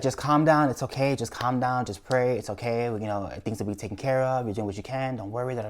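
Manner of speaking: soft, hushed reassurance; soothing mom. Retold or imitated. Mom on the phone calming her panicked son, softly. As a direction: gently talk her son down. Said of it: "So she's like".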